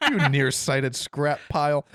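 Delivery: slow, barely British American voice; hint of British accent. Shown as a demonstration. Host re-reading droid insult to co-hosts, slight British accent. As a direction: say it slowly, only drifting toward British. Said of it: "That's hard not to say in a British accent".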